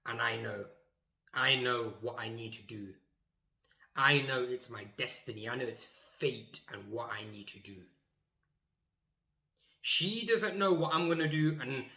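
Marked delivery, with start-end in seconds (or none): 0.0-7.8 understated suspense before the big moment; mock solemn. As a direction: narrate your fate with mock gravity. Mock-solemn inner monologue before defiance.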